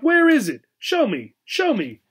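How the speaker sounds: eager. A narrator's reading. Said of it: "instantly cheering up".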